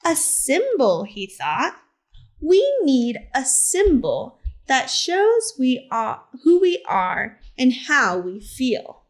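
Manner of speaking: gentle, expressive picture-book narration; reading to children. A narrator's reading. Teacher reads Harvey Milk's story to the class, storytelling voice. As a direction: tell it like story time on the rug.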